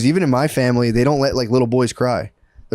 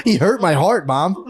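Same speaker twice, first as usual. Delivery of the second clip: higher, mock tearful little boy; imitating a hurt child; kid voice again; 3 semitones higher than usual. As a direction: laugh through a whiny kid line. Repeats kid's line laughing.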